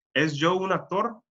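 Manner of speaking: Spanish question, pitch climbing on "actor"; rising question tune. Shown as a demonstration. Teacher shows Spanish works like English, rising tone on "actor". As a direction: lift "actor" at the end. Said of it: "La entonación va arriba".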